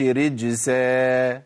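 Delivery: رجسا said with a hissed s instead of z; نطق خاطئ بالسين; wrong s for z. Shown as a demonstration. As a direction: demonstrate the error رجسا, z turned to s. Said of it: "ما اقولش".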